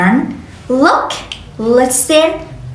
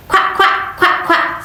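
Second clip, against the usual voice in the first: whispered quack; 5 semitones higher than usual. Shown as a demonstration. Teacher imitates duck.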